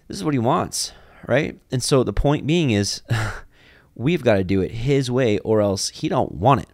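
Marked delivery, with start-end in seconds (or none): 3.9-6.7 little twang. Real, not acted. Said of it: "Sorry for that little twang there".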